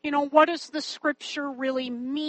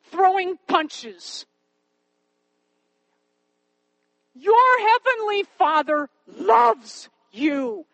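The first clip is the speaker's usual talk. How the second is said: put-on earnest, higher-pitched insistence to a distraught child; emphatic reassurance; 5 semitones higher, 4 dB louder than usual. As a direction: press each assurance home with conviction. Consoling the crying girl, retold.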